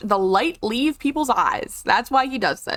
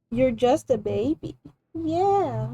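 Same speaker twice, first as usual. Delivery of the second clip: sweet soft pet talk with little kisses; 4 dB quieter than usual. Real, not acted. Cooing to her pet cat.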